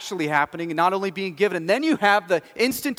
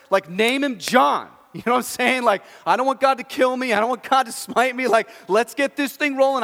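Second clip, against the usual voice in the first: higher and louder, urgent and panicked; blurting it out before God strikes you down; frantic insistence; 6 semitones higher, 5 dB louder than usual. Retold or imitated. Mute father, desperate to name his son John, frantic and loud.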